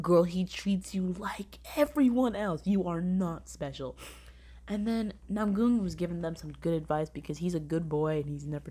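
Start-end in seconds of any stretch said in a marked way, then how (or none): 0.0-4.0 whispered put-down. Retold or imitated. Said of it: "And I'm like".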